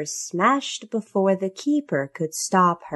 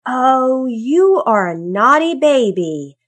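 scolding cry; 5 semitones higher, 7 dB louder than usual. A narrator's reading. Mother elephant to her baby over the smashed hat, loud scolding. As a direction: cry it out louder, chiding a naughty child. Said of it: "cried Missus Elephant".

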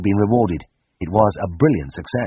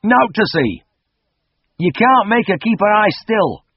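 farmer voice; 13 semitones higher, 4 dB louder, slower than usual. Acted. Farmer, slowly, knowingly.

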